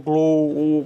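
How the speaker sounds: "glo" drawn out, low, with a closed "oh"; a loud, low "glo" with a rounded vowel; thick closed O. Shown as a demonstration. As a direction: hold the closed O in "glo" to show it.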